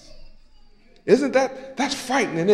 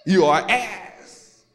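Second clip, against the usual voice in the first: much softer and lower, slowing; hushed; 4 semitones lower, 6 dB quieter than usual. Acted. Preacher hushing the congregation about the darkness. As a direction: let it drop to a hush.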